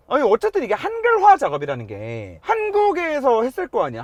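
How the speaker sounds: ordinary talk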